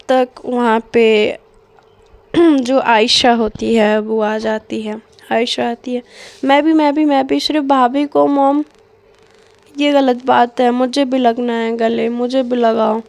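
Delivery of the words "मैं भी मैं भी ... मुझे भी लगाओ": whiny begging. Retold or imitated. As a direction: whine like a kid left out of the hug. Ayesha begging to join hug.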